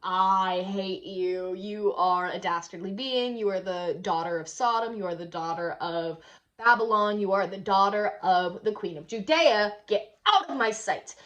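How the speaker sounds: mock anguished rebuke. John rebukes Salome, crying out.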